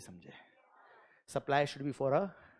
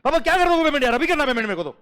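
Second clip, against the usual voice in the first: much higher, louder, fed-up outburst; exasperated shout; 9 semitones higher, 6 dB louder, much faster than usual. Retold or imitated. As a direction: lose patience and yell at papa. Son shouting at papa over payment. (झुंझलाकर ऊँची आवाज़ में चिल्लाना)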